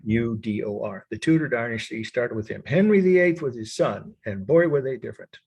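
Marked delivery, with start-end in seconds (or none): 0.0-1.1 letter by letter, with gaps; spelling aloud. Shown as a demonstration. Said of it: "I'll spell it for you".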